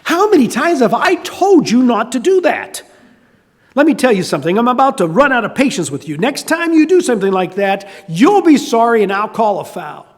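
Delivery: a referee lecturing a repeat offender; scolding referee. Acted. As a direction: tell him off, patience nearly gone. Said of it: "confronts the guilty player".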